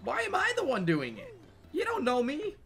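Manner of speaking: high, loud, half-sobbing protest; teary outburst. Real, not acted. Player overwhelmed by the sad letter, loud teary protest. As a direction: wail it out, close to tears. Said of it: "on the verge of tears".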